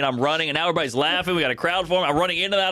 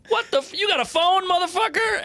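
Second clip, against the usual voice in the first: much higher, outraged question; mock incredulous cellmate. Cellmate to the new guy with a phone, incredulous. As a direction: imitate a cellmate's indignant surprise.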